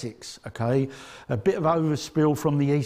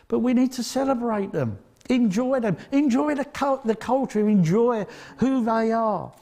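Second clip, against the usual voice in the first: raised, urging preacher's call; preaching build; 6 semitones higher than usual. Acted. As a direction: press the congregation to celebrate them. Rising to a preaching climax.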